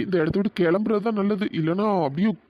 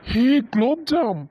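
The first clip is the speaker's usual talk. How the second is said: teasing drawl; 3 semitones higher, 3 dB louder, slower than usual. Acted. Drawn-out teasing nickname.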